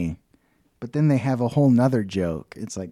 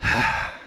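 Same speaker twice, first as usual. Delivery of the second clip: soft breathy sigh; acting out the wizard's sigh; 4 semitones lower, 6 dB quieter than usual. A narrator's reading. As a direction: let out a weary sigh. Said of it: "and he's sighing".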